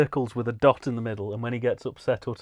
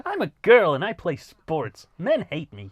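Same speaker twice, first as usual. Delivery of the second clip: put-on girl voice; 5 semitones higher, 5 dB louder than usual. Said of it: "doing the voice".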